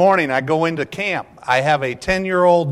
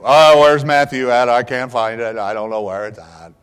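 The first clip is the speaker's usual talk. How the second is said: put-on loud old-man grumble, sinking lower as it goes; grandpa's failed whisper; 4 semitones lower, 4 dB louder than usual. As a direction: start loud, then tail off low in one run. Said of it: "Grandpa could not whisper".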